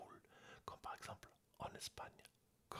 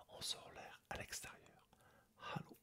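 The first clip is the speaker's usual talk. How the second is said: ASMR whisper. Real, not acted. Whispering a German lesson to ASMR viewers. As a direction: whisper close to the mic throughout.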